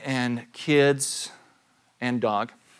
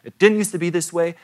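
retold indignant rant; 7 semitones higher, faster than usual. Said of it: "I'm like".

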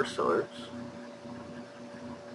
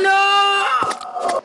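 shrieked no; 3 dB louder than usual. Real, not acted. Friend reacts to zombie threat.

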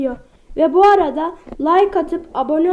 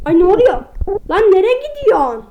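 startled; 3 semitones higher, 4 dB louder than usual. Real, not acted. Sudden scare.

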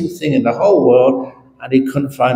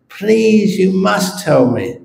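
desperate pleading; 7 semitones higher, slower than usual. Acted. Australian begs abbot to tell him.

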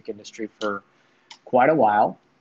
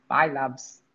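British accent. Shown as a demonstration. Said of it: "That was good".

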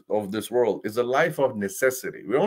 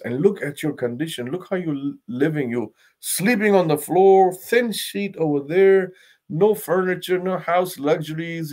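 emotional plea; 3 semitones higher than usual. Retold or imitated. Companion pleads with the Prophet about his poverty, tearfully. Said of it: "crying, emotional tune of voice".

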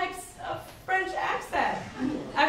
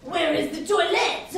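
put-on French accent; 4 dB louder than usual. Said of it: "No, too much?".

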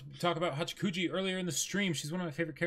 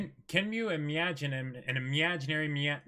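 reading aloud haltingly. Shown as a demonstration. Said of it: "Just read it slowly".

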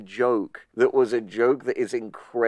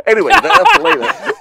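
laughing; 10 dB louder, faster than usual. Real, not acted. Laughing fit in heated banter.

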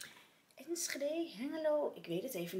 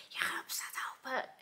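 a secret whisper in the ear; hushed retold whisper; 5 semitones higher than usual. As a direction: whisper it close, just for her to hear. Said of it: "fluisterde ze in mijn oor".

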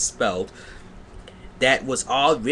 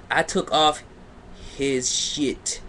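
mock dramatic reading. Mock reading, then plain repeat.

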